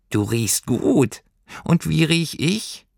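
hohe, gedehnte Figurenstimme; schnupperndes Pelztierchen. A narrator's reading. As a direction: langsam und hoch, als kleines Fabelwesen. Schnüffelndes Tierchen fragt Lilli. (gedehntes, neugieriges Stimmchen)

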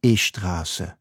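E-Straße said with an e before the S; Farsi-accented E-Straße. Shown as a demonstration. How all Iranians say it, E-Straße with a vowel before the S. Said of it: "Deswegen sagen alle Iranerinnen und Iraner".

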